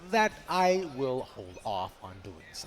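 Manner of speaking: flat, even robot voice. Real, not acted. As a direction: speak like a robot, evenly. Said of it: "Why do you sound like a robot".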